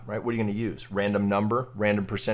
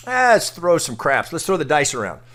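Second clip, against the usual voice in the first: louder, carefree gambler, hamming it up; mock Vegas gambler; 2 semitones higher, 6 dB louder than usual. Mocking fomo traders as gamblers, loud carefree gambler. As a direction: play a reckless guy at the craps table.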